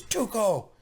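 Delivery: high, loud Tuco yell; hammed-up high Tuco shout. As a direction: bellow the name like a man high on meth. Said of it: "good Tuco, by the way".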